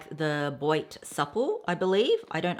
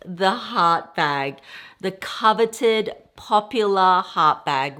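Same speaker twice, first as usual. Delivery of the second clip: slow, louder gushing reveal; excited reveal; 2 semitones higher, 6 dB louder, slower than usual. Real, not acted. Showing viewers the coveted bag, slow excited reveal. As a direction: savour each word of the bag's name.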